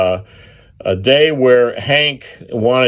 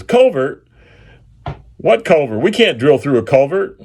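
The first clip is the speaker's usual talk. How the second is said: high, startled disbelief; incredulous outburst; 5 semitones higher than usual. Retold or imitated. Drill manager balking at a hidden culvert, high and incredulous. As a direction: repeat the word like you can't believe it.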